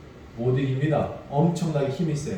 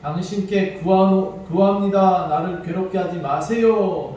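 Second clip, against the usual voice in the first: higher, slow, louder begging; loud pleading cry; 4 semitones higher, slower than usual. Retold or imitated. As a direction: cry out at Jesus's feet. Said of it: "큰 소리로 불러요". (엎드려 큰 소리로 애원하는 외침)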